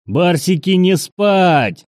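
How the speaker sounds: high, loud yell to rouse the troops. A narrator's reading. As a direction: bellow a wake-up order, pitched high. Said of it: "заорал Прохор".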